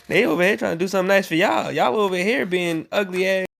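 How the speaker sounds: fast, scolding side comment; sassy aside. Real, not acted. Parent scolding the stepsisters mid-story, sassy and fast. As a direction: tell off the stepsisters with sass.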